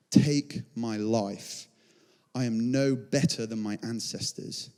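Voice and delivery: surrender quietly, with long pauses; weary despair. Acted. Elijah under the bush praying to die, weary despair.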